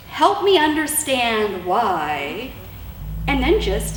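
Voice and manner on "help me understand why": slow, gentle question; gentle request. Shown as a demonstration. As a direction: ask it slowly, inviting an answer. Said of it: "ask him this question".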